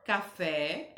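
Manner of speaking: Café slowly, with FÉ stressed; stress on final syllable. Shown as a demonstration. Teacher shows pupils the strong syllable, Café stressed on FÉ. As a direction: lean on the last syllable of Café. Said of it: "é o fé".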